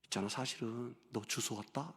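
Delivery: aunt's teasing secret. Retold or imitated. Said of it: "그러시는 거예요".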